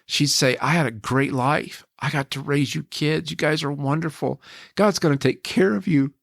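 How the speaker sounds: fighting tears while quoting her last words; choked up. Retold or imitated. Husband quotes dying wife, emotional.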